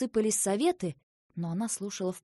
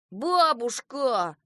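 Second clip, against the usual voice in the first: louder, drawn-out protest; children's cry; 4 semitones higher, 6 dB louder, much slower than usual. A narrator's reading. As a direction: call out to grandma, stretching the word. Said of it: "хором крикнули Сева, Горыныч и Ёж".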